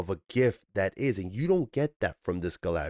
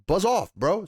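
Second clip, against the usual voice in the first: mock brush-off; 9 semitones higher, 4 dB louder than usual. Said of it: "She told him".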